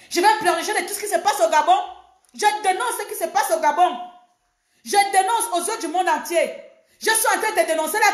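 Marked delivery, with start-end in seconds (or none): 0.1-6.5 fired-up denunciation. Real, not acted. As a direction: denounce it with rising heat. Denouncing events in Gabon.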